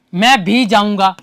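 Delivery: slow sentence with emphasis on भी; deliberate delivery, weight on भी; stress on भी. Shown as a demonstration. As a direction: lean on भी as the emphatic word. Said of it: "ये अतिरिक्त जोर देने के लिए आया".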